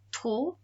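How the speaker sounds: "Trop" isolated, no P at the end; silent final consonant. Shown as a demonstration. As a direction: say Trop ending on the vowel. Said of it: "are silent on the end of words".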